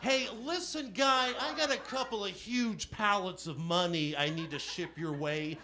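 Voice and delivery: lightly voiced smarmy Hollywood exec; hammed-up smooth money pitch; slick Hollywood caller. Scammer calls Michael Caine pretending to send money, smarmy. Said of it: "Rich Person from the entertainment industry".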